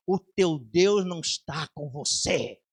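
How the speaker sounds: slow, low demon voice with an otherworldly edge; lightly voiced mocking demon; demon's taunt. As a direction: sneer it slowly like a demon. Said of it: "esse demônio falou assim".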